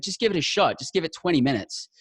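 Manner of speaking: imitating wife urging him to try; wife coaxing. Husband retelling his wife coaxing him to listen, pleading. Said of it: "She's like".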